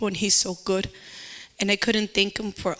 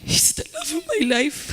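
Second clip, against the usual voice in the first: choked with emotion; 13 semitones higher than usual. Real, not acted. Telling son her love.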